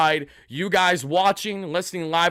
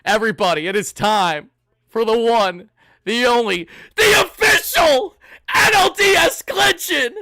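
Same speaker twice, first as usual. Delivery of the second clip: crank it up like a ring announcer; announcer hype; 5 semitones higher, 5 dB louder than usual. Real, not acted. Hyping up the big win announcement.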